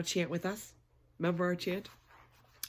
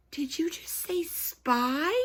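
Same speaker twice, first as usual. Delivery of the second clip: stunned whisper; 8 semitones higher, slower than usual. Acted. Lulu stunned by the babysitter.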